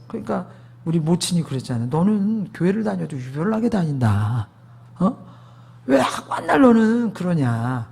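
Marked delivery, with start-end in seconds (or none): 1.9-7.9 imitating a mother's mild scolding. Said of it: "그러면서 혼내기도 하고".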